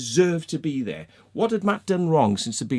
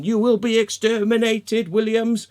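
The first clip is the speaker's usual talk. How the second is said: high, raised, declaiming mock menace; mock villain threat; 5 semitones higher, 4 dB louder than usual. Teasing Dean with a threat to Williams, hammed-up villain proclamation.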